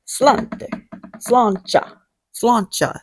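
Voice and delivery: "slancha" tried over and over, unsure; struggling with Gaelic. Shown as a demonstration. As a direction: fumble through "slancha" like a beginner. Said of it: "See, I can't".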